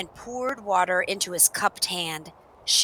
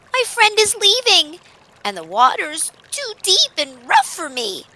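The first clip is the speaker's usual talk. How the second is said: high, loud puppy voice in alarm; distressed puppy; 12 semitones higher, 7 dB louder than usual. Acted. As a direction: cry out high with worry. Dog fears being left.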